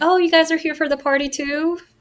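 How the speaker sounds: high, put-on pixie voice. Pretending to be a pixie to trick the painter: put-on pixie voice. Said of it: "I'm gonna pretend to be a pixie".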